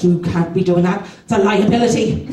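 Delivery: lightly voiced Irish old woman. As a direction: put on a hint of an elderly Irish accent. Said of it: "this old Irish woman".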